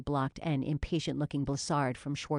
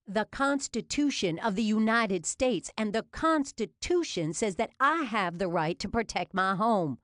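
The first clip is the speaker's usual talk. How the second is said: defiant shout; 7 semitones higher, 4 dB louder than usual. A narrator's reading. Defiant suspect shouting at cops.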